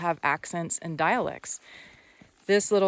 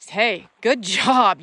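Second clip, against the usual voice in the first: drawn-out, louder praise for the horse; slow praise; 6 dB louder, much slower than usual. Real, not acted. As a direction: stretch out the praise slowly. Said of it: "I say".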